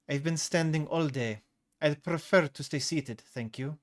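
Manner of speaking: flat and direct, meant to end it; cool flat refusal, no give. Acted. Salatra to the pushy businessman, flat and direct. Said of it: "she said in a flat and direct tone".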